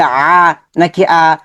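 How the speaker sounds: slow, separated "আ" set against a second "আ"; careful articulation. Shown as a demonstration. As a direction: demonstrate the two "আ" sounds as distinct Arabic letters. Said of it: "focus রাখবো উচ্চারণের".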